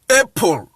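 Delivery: APPLE begun with "ay"; letter-name "ay" opening APPLE; English letter A in APPLE. Shown as a demonstration. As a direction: say APPLE as "AY-pol". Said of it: "you will pronounce it like apple".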